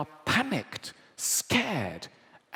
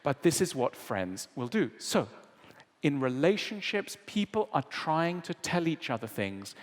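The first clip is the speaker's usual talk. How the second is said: ordinary talk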